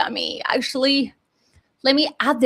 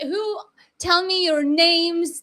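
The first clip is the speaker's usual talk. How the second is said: ordinary delivery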